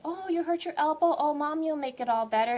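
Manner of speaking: mother soothing her hurt child, mock sweet; comforting mother. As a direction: coo over the hurt elbow like a mom. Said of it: "And you say".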